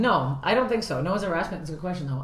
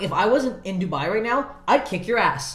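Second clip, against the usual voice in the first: higher, mildly heated mock threat; retold threat; 4 semitones higher, 4 dB louder than usual. Comic threatening a critic in a story, mock-angry. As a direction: threaten as if retelling a fight. Retold quarrel with audience member.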